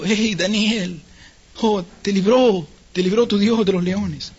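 slow, drawn-out mournful call; sorrowful calling. Acted. King Darío calls to Daniel in the pit, sorrowful. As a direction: call as if at a funeral. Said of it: "esa es la palabra la cual está en sí manifestando aquí".

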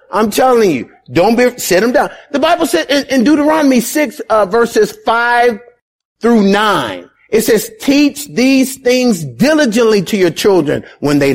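insistent preacher citing chapter and verse; urgent preaching. Acted. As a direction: press the Bible command on the congregation. Preaches a Bible passage urgently.

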